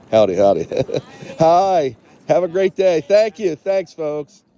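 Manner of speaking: high, friendly calling out; cheerful greeting. Real, not acted. Greeting passersby on boardwalk.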